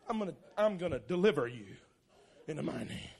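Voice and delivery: low, soft, feeble threat; mock a harmless warning; puny threat. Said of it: "You don't talk like that".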